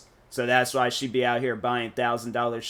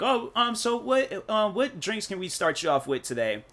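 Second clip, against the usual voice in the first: much higher-pitched mock waiter voice; restaurant waiter; 9 semitones higher than usual. Waiter asking diners for their drink order, imitated high-pitched. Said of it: "They're gonna be like".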